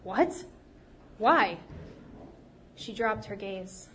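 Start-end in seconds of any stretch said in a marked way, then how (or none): 0.0-1.6 shocked, rising What? and a loud Why?; startled rich man blurting questions; surprised. Acted. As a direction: blurt it out in disbelief. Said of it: "The Basha's eyes popped".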